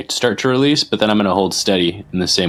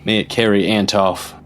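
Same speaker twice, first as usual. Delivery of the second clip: solemn invocation, lightly performed; measured, halting blessing over the wounded; a touch of ritual prayer; in-character prayer; 2 semitones higher than usual. Acted. Player voices a character's prayer.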